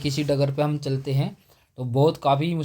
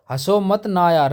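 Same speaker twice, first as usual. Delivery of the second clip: insisting; 3 semitones higher than usual. Retold or imitated. Friend repeating the plea more insistently. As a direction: push the plea more urgently. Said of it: "उसने कहा".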